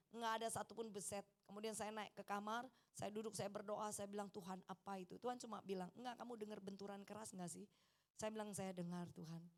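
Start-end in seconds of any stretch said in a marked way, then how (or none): 4.4-5.2 low, very soft question; hushed prayer. Retold or imitated. Wife praying alone in her room, hushed and low. 6.0-7.6 soft, gently questioning reply; quiet voice of God. Retold or imitated. God answering her prayer in the room, very soft. 8.5-9.5 low, very soft answer; hushed reply to God. Retold or imitated. Wife answering God in private prayer, hushed and low.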